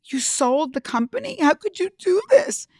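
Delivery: rising, pleading disbelief, voice climbing high; half-acted hurt protest to the boss; distraught plea. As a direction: retell the betrayal as a high, cracking plea. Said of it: "I was so distraught and I'm like".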